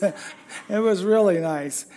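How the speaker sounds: slow, sincere, leaning on "really"; mean it this time, slowly. Real, not acted. Sincere restatement after joke.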